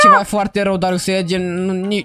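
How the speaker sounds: low, gloomy put-on lament; mock despair. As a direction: play hopeless, voice sunk low. Fakes despair before driving into water.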